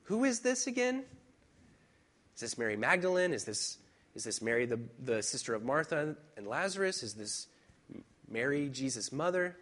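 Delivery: mock bewilderment of a Bible reader; confused reader. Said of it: "it's easy to say".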